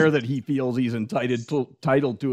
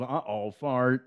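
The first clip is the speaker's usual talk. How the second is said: slow mock Raymond; 6 dB quieter, slower than usual. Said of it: "Dustin Hoffman just".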